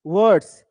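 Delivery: "वर्ड्स" with the r swallowed; r barely sounded. Shown as a demonstration. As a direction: say "वर्ड्स" with a half r, not rolled. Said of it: "तो र पूरा पढ़ा नहीं जाता". ("वर्ड्स" में र आधा, हल्का)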